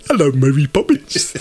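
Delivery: mock Van Dyke cockney, slowish; bad cockney like Dick Van Dyke. Hamming up Van Dyke for co-host. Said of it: "Dick Van Dyke moment coming".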